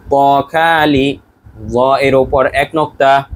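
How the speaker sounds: slow chant of ত খালি for students to echo; teacher drilling the class so they repeat it, in a slow chant; model recitation. Shown as a demonstration. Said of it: "বলুন".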